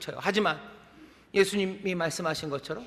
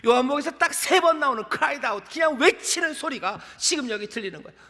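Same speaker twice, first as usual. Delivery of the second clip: raised, high-pitched sermon delivery; impassioned preaching; 7 semitones higher, 3 dB louder than usual. Real, not acted. Preacher urging the congregation to hear the cry, impassioned. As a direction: press the point home like a fervent preacher.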